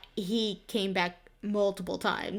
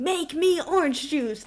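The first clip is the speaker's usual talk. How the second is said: mock yell; 6 semitones higher, 5 dB louder than usual. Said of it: "He just kept yelling".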